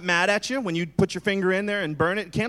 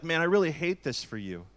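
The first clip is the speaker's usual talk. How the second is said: sincere sympathy; 4 dB quieter than usual. Shown as a demonstration. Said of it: "you can use words like".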